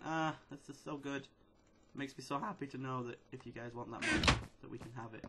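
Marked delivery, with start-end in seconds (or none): 0.0-1.3 contented sigh. Retold or imitated. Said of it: "that was the sound of me going".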